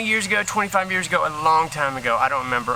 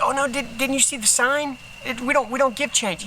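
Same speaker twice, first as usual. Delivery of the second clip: mock apologetic cashier; 8 semitones higher than usual. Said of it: "the guy's like".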